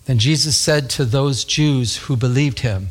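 slow, measured Bible reading; scripture reading. Acted. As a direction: read the verse out deliberately. Reads scripture aloud.

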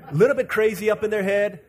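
loud emphatic repetition with "little" stressed; emphatic repeat. Shown as a demonstration. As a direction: hammer the phrase home for the crowd. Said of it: "repeated with emphasis".

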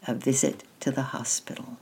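soft whispered title. Real, not acted.

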